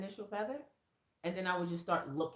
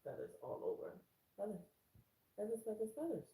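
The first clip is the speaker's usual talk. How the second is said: softer, breathless wonder; awed whisper; 5 semitones higher, 6 dB quieter, faster than usual. Retold or imitated. Finding feathers on her shawl, whispered in awe. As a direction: hush it in awe.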